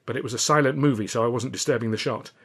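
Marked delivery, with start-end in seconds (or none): none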